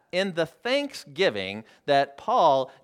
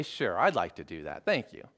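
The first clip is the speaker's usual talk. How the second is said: agreeable reply; 9 semitones lower, 5 dB quieter than usual. Acted. Agreeable employee answering polite boss.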